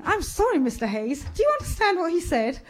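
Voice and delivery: soft, respectful Oxbridge lawyer; politely baffled, in an Oxbridge accent. A narrator's reading. Bowler the lawyer asks Hayes to translate, in respectful Oxbridge tones. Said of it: "had a very Oxbridge accent and he was very respectful".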